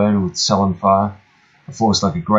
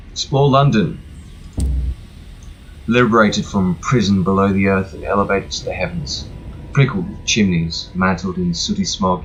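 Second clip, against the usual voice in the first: travel guide read. Acted. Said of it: "sounds like I was just reading a lone, Lonely Planet guide".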